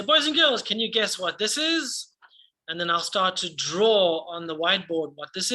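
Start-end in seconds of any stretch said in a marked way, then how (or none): 0.0-2.1 bright, higher voice for the class; kids show host. Shown as a demonstration. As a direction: ask the children with lively cheer. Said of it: "And then I'm gonna say".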